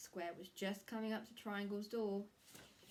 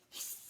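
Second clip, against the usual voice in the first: snake hiss; 6 dB quieter than usual. Acted. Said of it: "just like a snake".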